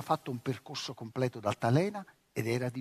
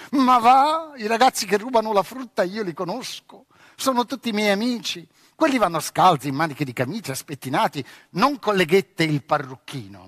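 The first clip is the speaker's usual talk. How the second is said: girlish mocking voice, higher and louder; laughing girl; 4 semitones higher, 6 dB louder than usual. Girl on swing laughing at the boy, mocking. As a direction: laugh at him while you tease. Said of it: "scoppiò in una risata".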